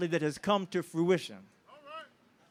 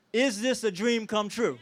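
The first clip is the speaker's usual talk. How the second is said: rallying question; 3 semitones higher than usual. Real, not acted. Speaker rallies the crowd with a question, shouting. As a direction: call it out to the crowd. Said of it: "One more time".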